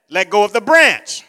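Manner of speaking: loud, firm repeated order; voice of God. Retold or imitated. The Lord insisting to the man, firmly commanding. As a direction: insist with calm authority. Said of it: "The voice said, "I said".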